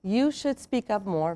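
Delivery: slow, critical should; a cold judgement; curt criticism. Shown as a demonstration. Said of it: "sound and feel different".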